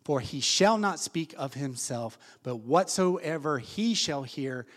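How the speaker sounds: slow, measured Bible reading; scripture reading. Acted. Pastor reading the Bible aloud to the congregation, slow and measured. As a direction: read the verses out deliberately.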